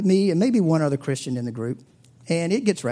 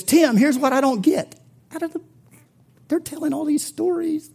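higher, louder mock challenge; pitched-up imitation of a drunk friend; retold friend's challenge; 13 semitones higher, 5 dB louder than usual. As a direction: voice the rowdy friend pushing back.

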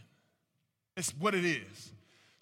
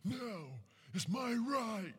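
higher mocking voice of defiant friends; mocking his friends; 5 semitones higher, 3 dB quieter, much slower than usual. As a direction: lampoon the friends who insist it's my right. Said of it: "They be like".

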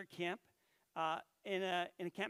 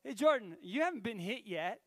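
teasing call; 2 semitones higher, 5 dB louder than usual. Retold or imitated. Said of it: "took it upon himself to be like".

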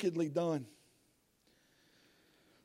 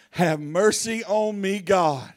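pleading; slower than usual. Acted. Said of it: "The first thing out of his mouth is".

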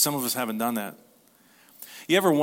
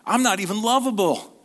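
astonished disbelief; 9 semitones higher, 5 dB louder than usual. Acted. Voicing an astonished loved person.

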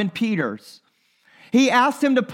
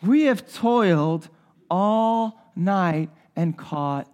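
weary resigned voice; much slower than usual. Retold or imitated. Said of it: "he probably says it in that voice".

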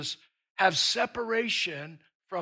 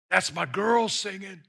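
a sudden proud shout over his daughter; proud call out. Acted. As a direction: burst out with joy. God's pride bursting out.

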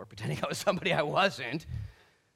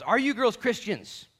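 louder, slow, pointed question; blunt loud question; 8 semitones higher, 8 dB louder, slower than usual. Retold or imitated. Adam Pearson confronting girls on the lift, slow and loud. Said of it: "Adam Pearson leans forward and says".

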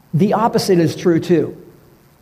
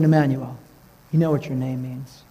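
tender comfort. Retold or imitated. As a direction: comfort a grieving man gently. Consoling the clerk by name.

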